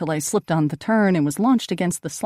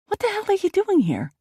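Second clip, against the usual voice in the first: startled shout. A narrator's reading.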